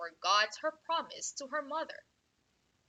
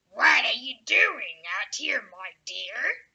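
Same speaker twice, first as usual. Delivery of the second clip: louder, sly friendly wolf copying the woodcutter; wolf faking friendliness; 2 semitones lower, 9 dB louder, slower than usual. Acted. Wolf mimicking the woodcutter to trick the girl, falsely friendly. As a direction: put on a sweet voice to fool her. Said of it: "in a friendly voice imitating the woodcutter".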